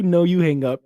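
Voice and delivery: high, loud squeal with NO stressed; lovestruck banter. Acted. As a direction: tease back playfully, stressing No. Repeated lover banter.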